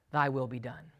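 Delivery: "Thy will be done" dropped low and soft; God's grave verdict. Acted. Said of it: "to whom God says".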